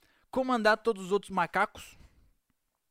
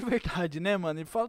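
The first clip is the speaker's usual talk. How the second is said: ordinary delivery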